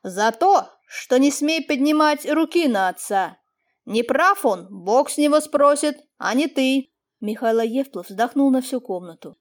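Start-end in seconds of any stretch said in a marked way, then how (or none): 0.0-6.9 louder lecture, a mild tremble; stern but shaken warning to the son; trembling voice. Acted. Master warns the lad not to raise his hand, trembling. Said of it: "Голос его не переставал дрожать".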